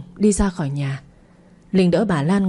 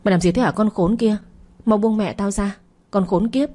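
higher, angry yell at the attacker; shouting; 3 semitones higher than usual. Acted. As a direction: yell at her to let go of mother. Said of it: "hét lên".

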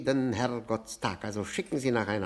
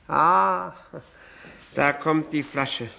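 pleased exclamation; 3 semitones higher, 4 dB louder, slower than usual. Acted. Guest spotting the champagne, delighted. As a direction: greet the bottle gladly. Sees the bottle arrive.

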